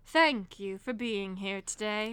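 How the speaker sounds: slow, precise royal wave voice; prim royal greeting. Retold or imitated. Friend supplying the princess-lesson line, slow and prim. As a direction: say it slowly like a proper princess. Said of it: "how they say it".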